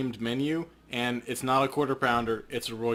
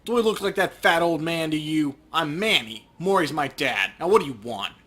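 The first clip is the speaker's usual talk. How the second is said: a hint of a rude butcher, louder; surly shopkeeper; 3 dB louder than usual. Manny the butcher snaps at Paco, surly. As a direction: brush off the customers with contempt.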